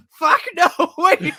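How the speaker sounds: high, loud sudden yell; comic panic. Acted. Crew finding a two-stage process, comic panic. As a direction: burst out in mock alarm.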